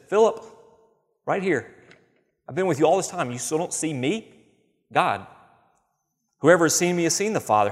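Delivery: insist, pressing the point home; Jesus answering. Acted. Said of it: "He says".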